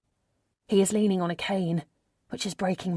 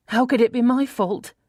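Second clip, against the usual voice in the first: indignant protest; 5 semitones higher, 6 dB louder than usual. A narrator's reading. Protesting to her mother.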